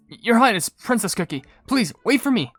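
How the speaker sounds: high-pitched call after the princess; pleading attendant. Acted. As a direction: plead like a servant left behind. Attendant calls after hurrying princess.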